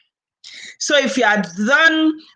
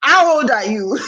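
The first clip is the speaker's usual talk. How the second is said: laughing tease. Retold or imitated. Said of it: "I said".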